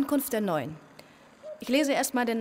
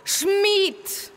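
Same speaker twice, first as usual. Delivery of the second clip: sharp correction; 9 semitones higher than usual. Acted.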